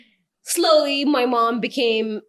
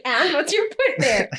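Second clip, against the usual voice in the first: sassy comeback; 7 semitones higher than usual. Retold or imitated. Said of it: "And I'm like".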